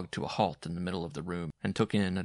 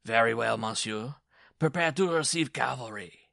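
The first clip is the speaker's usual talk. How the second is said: raised, formal battle warning; dwarf issuing challenge; 4 semitones higher, 4 dB louder than usual. A narrator's reading. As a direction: announce the charge as the dwarf. Dwarf formally announces his attack.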